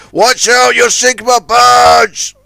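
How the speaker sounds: slow, loud panicked shout. Acted. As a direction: warn him desperately. Barge about to sink.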